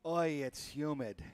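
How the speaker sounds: slow, drawn-out put-on New York accent; a jokey New York accent, stretched out; mock New York accent. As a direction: playfully overdo a New York accent on the humidity. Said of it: "He says in his semi-Canadian voice".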